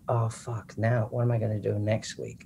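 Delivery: an under-the-breath oh no after the applause; panicked inner thought. Retold or imitated. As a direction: drop way down as if thinking it privately. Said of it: "I thought".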